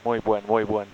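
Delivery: put-on chatty ground crew with Spanish accent. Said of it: "need to work on my, uh, Spanish accent".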